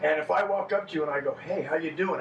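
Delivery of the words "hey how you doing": happy. Shown as a demonstration. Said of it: "my eyebrows are up and I look happy".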